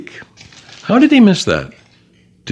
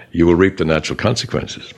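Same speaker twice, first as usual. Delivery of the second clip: very gently; 3 semitones lower than usual. Retold or imitated. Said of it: "a powerful person says very gently".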